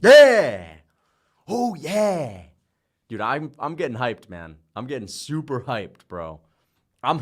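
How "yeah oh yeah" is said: victory shout. Real, not acted. Streamer celebrating four and oh, loud triumphant yelling. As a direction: crow about the record at full voice.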